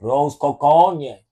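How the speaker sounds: put-on slow, clumsy Spanish accent; bad Spanish accent. Echoing the co-host's food order in a bad Spanish accent. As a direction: attempt a Spanish accent slowly and get it wrong. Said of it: "he's not good with accents".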